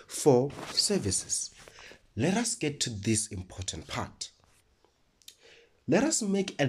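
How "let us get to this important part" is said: whispered. Real, not acted. Teacher drops into whisper.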